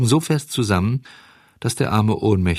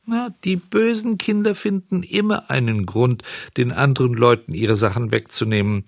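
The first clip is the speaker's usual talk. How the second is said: belehrend; 4 semitones higher than usual. Acted. Käfer belehrt.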